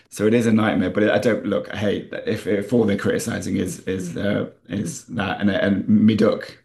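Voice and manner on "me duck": "me duck" drawn out slowly in a Nottinghamshire accent; local Nottinghamshire phrase. Shown as a demonstration. Writer showing critics the local "me duck", slow Nottinghamshire accent. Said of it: "People say me duck".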